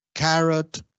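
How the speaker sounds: CARROT with a plain 'ka'; English pronunciation. Shown as a demonstration. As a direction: say CARROT without a 'y' glide. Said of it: "Las palabras empezadas con G, K, antes de A".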